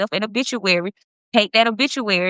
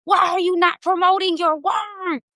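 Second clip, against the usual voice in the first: amazed outburst; 8 semitones higher, slower than usual. Retold or imitated. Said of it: "I was like".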